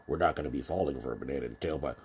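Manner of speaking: fast, thin mock voice without bass; nasal weak voice. Quoting Eddie Murphy's movie, fast thin voice with no bass. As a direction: squeak it out, no bass at all. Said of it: "in the famous movie".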